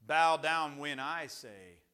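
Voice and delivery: slow, forceful order; weighty, commanding preacher as king; king's command. Acted. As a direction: lay down the law, stretching each word.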